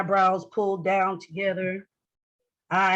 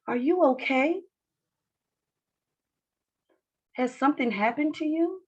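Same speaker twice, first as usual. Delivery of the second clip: higher, gently concerned asking; acted check-in, leaving room to answer; caring question; 6 semitones higher than usual. Shown as a demonstration. HR director asking someone who looks sad, caring. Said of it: "you're gonna ask questions like".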